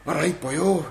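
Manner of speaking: a hammed-up English accent with a touch of a Welsh greeting; mock English accent. Co-host teasing David about his English accent in South Wales, mock English accent. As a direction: tease a friend by doing his English accent in Wales, lightly. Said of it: "That vibrant English accent".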